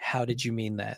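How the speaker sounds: soft, gentle, kind tone. Speaker demonstrates asking someone how they meant a remark, soft tone. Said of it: "And use a soft tone".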